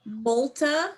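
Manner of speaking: Multa said slowly as MOL-tuh, rising; pronunciation demo. Shown as a demonstration. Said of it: "say multa".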